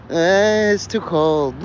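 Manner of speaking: mock picky refuser; a lightly voiced fussy complainer; whiny complainer. Acted whiny refugee reply.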